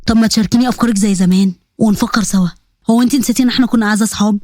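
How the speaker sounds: lightly voiced old friend coaxing her; coaxing young man. Hamza reminding Sagda of their old friendship, coaxing.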